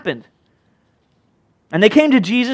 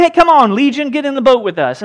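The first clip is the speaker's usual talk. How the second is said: eager invitation; 4 semitones higher than usual. Acted. Voices inviting Legion into the boat.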